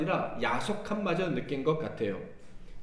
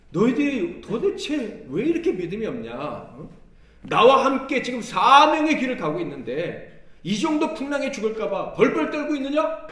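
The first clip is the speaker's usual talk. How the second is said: much higher and louder scolding; exasperated rebuke; 7 semitones higher, 7 dB louder than usual. Retold or imitated. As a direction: scold the fearful disciples in exasperation. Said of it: "주님의 책망은요".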